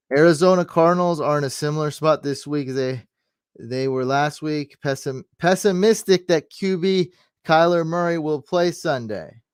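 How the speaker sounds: loud, high, urgent-sounding announcement; yelling. Real, not acted. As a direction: read the breaking news out loud, voice pushed up. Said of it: "I don't know why I'm yelling".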